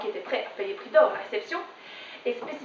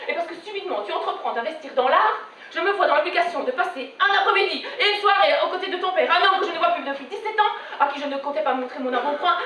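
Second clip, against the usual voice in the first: lightly voiced aggrieved mother; reproachful mother. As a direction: mount a long, indignant maternal lecture. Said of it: "me dit-elle". (mère qui sermonne, légèrement jouée)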